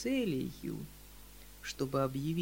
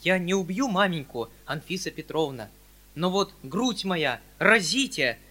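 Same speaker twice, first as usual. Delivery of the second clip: louder, dramatic worked-up outburst; bare your chest theatrically; louder melodramatic heat; 4 semitones higher, 7 dB louder than usual. Acted. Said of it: "разгорячённый до последней степени".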